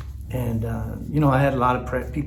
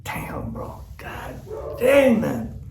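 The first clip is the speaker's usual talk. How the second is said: real tears, whispered and breaking; words barely get out through crying; choked up; 9 semitones higher, much slower than usual. Real, not acted. Moved by his brother's call, whispering through real tears.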